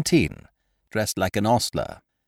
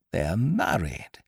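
1 gasped; 4 semitones lower, 7 dB quieter, slower than usual. A narrator's reading. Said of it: "I gasped".

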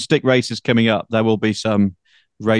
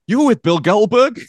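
higher-pitched attempt at a French accent; 9 semitones higher, 3 dB louder than usual. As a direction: imitate a French brother-in-law's surprised question, accent lightly done. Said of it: "It's like in a French accent".

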